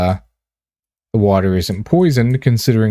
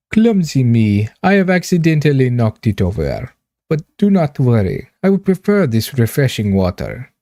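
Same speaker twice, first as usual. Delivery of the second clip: put-on slipping Russian accent; 3 semitones higher than usual. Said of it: "I keep slipping into, like, a Russian accent".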